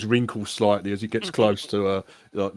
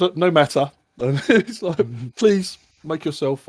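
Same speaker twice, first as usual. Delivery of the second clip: higher and louder, slowing on please; brushing off the snub grandly; airy host; 7 semitones higher, 7 dB louder than usual. Acted. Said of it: "he goes".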